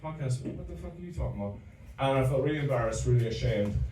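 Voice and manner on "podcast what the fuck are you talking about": retold barman. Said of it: "And I was like".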